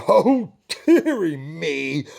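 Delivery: slow, loud sighing king; mild sigh. Acted. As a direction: sigh it out gloomily. King sighs first time.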